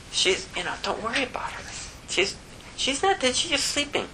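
calm them with a light, easy reassurance; airy, soft-spoken calm; gentle Jesus. Acted. Jesus gently dismisses mourners.

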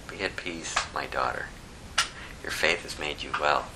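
hushed, kind blessing; tender reassurance. Acted. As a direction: soothe her like a frightened child. Jesus comforts the healed woman.

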